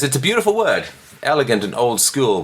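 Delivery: high, swooning mock-poetic read; dreamy overblown recital; mock gushing. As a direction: lampoon the author's rapture. Reading the author's gushing prose.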